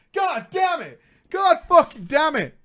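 high, loud cursing; frustrated curse. Real, not acted. Frustrated outburst.

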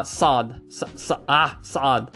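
"Saad" with a heavy dark S; Arabic Saad. Shown as a demonstration. Teacher tentatively trying the emphatic Saad. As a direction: darken the S in Saad. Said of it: "I'll try".

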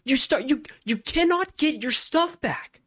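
exasperated laughing rant about being scammed; outraged excitement. Real, not acted. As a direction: tell it like you can't believe you got robbed. Retelling getting scammed in game.

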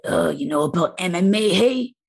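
hammed-up Boston-New York tough guy; brash imitation of a Boston-New Yorker; mock Boston-New York accent. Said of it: "what's his accent".

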